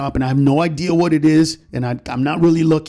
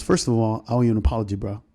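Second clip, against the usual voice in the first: Dre; 5 semitones lower than usual. Retold or imitated. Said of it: "And Dre goes".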